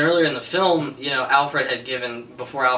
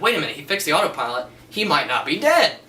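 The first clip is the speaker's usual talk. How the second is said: fast and rising, higher and louder at the end; excited realization; 4 semitones higher, 4 dB louder than usual. Retold or imitated. Viewer realizing Batman might be alive, fast excited. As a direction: rush it out as the truth dawns. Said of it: "And I was like".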